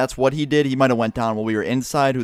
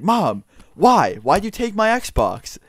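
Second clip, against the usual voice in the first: whiny demand; 7 semitones higher, 3 dB louder, much slower than usual. Retold or imitated. Friend confronting mom over Xbox.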